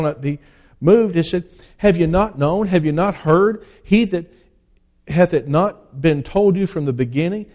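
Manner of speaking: solemn pulpit reading of Isaiah; scripture reading. Acted. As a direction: read it like a preacher proclaiming the word. Reads Isaiah aloud from the pulpit.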